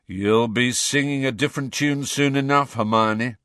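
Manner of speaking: high, knowing taunt; teasing warning. A narrator's reading. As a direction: tease with a confident prediction. Fred teases Hermione.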